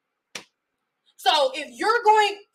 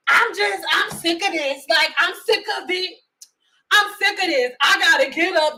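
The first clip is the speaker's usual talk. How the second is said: mocking impression. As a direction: imitate them, sick of it all. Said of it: "This how y'all sound".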